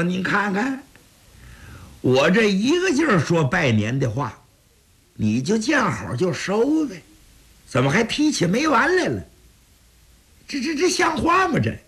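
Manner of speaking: muttered indignation, rising to a stammer; mildly annoyed grumble. Acted. Jiang Zhao grumbling to himself about the kicks, mildly indignant. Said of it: "蒋昭呢就有点不痛快了".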